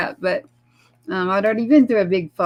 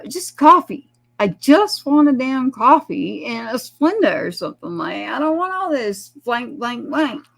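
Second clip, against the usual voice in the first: higher and much louder, then easing off, fed up; frustrated rant; 4 semitones higher, 4 dB louder than usual. Retold or imitated. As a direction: blow up over a simple coffee order. Stressed son snaps ordering coffee.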